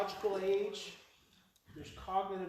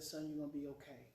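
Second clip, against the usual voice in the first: soothing dad; 5 semitones lower, 11 dB quieter than usual. Retold or imitated. Dad soothing his crying son.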